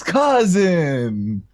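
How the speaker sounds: high, drawn-out demo call; a restrained imitation of hollering; top-of-lungs call. Shown as a demonstration. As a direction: call it out long and high, Niko-style. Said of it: "say at the top of your lungs".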